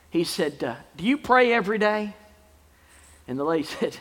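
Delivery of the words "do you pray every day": lightly voiced little boy, higher; little boy's question. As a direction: ask it like an earnest young boy. Joke voicing a little boy's question.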